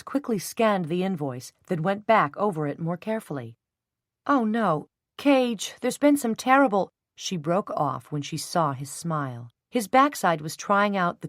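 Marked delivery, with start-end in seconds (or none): 4.3-6.9 dismay. A narrator's reading. Dismay at the invoice.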